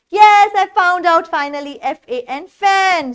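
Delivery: a small teacher's cheer as the word turns up; excited discovery. Pretend. Teacher finds the word for the class, excited.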